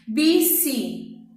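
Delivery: "bicicleta" slowly, syllable by syllable, "cle" punched; stress on CLÉ. Shown as a demonstration. Teacher illustrates paroxítona, "bicicleta" stressed on "cle". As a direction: break up "bicicleta" and lean hard on "cle". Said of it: "Olha o clé".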